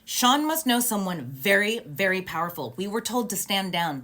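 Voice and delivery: a touch of indignation, words leaned on; retelling angry officer. Retold or imitated. Officer explains to upset friends why no arrest, mildly angry. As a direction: imitate an officer angrily explaining, mildly heated. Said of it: "she was so angry".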